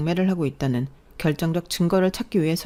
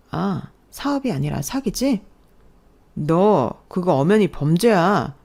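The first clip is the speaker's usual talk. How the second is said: pointed accusation; slower than usual. Acted. Wife confronts husband about fraud.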